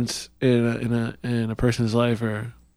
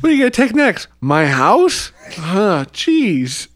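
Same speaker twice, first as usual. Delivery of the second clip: squeaky panicked dealer; 8 semitones higher than usual. Pretend. Continues panicked dealer bit.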